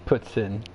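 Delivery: poutine said the French way, with "ts" for the t; French pronunciation. Shown as a demonstration. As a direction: say "Poutine" as "poot-sin", nasal final vowel. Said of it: "I'll give you one French word".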